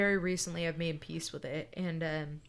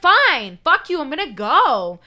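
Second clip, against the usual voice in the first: much higher, much louder angry shout; furious yell; 8 semitones higher, 15 dB louder than usual. Retold or imitated. Girlfriend shouting back before hanging up, furious. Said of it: "she was like".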